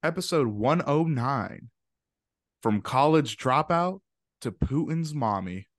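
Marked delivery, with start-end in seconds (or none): 2.6-5.7 slow, lifted storybook read; storyteller reading. Pretend. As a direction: read it like a grand class story. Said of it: "like, you're reading to the class".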